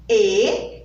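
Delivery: "Elefante" in separate beats, mouth wide; syllable by syllable. Shown as a demonstration. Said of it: "Quatro vezes". ("Elefante" sílaba por sílaba)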